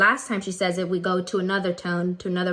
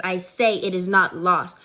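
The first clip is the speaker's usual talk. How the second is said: slightly raised voice; 4 dB louder than usual. Shown as a demonstration. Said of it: "Her voice raises a little bit".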